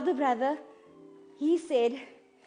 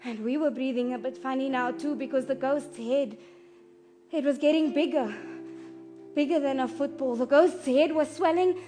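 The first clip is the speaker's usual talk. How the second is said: soft, fearful recounting fading quieter; hushed dread; 2 semitones lower, 9 dB quieter than usual. Acted. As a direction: keep it small, as if hard to breathe in that room. Hushed dread beside the injured man.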